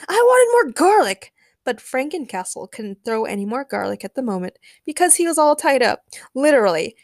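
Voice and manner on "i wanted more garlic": very high, loud whine; loud complaint. A narrator's reading. Ray wants more free garlic, complaining loudly. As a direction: wail it like a thwarted kid. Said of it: "complained Ray".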